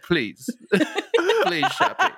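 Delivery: high, pleading please; mock pleading James. The speaker imitating James pleading to Shappi. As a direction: beg like an apologetic Shakespearean actor. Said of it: "you're just like".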